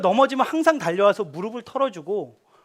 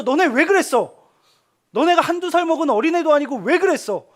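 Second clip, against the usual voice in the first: mock scolding; 5 semitones higher than usual. Imagined God scolding people.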